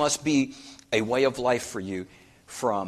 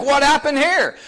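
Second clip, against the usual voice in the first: high, loud, exasperated what happened here; a frustrated boss finding a mess; 9 dB louder than usual. Retold or imitated. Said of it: "You're like".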